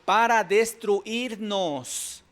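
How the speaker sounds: loud, high, slow mock demonic cry; lightly hammed demon challenge; demon's outcry. Preacher quoting demons challenging Jesus, loud and slow. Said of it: "Incluso dice".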